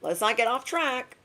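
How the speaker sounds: lightly voiced inner coach; gentle self reminder. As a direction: coax yourself back on track. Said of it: "keep your mind like".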